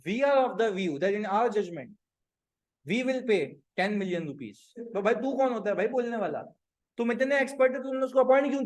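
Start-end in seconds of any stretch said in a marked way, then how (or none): 0.1-4.6 slow, deliberate dictation pace; spelling out the model answer slowly; slow dictated English. Shown as a demonstration. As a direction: read it out word by word like dictating an answer. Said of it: "अच्छा client ने अंग्रेजी लिखी".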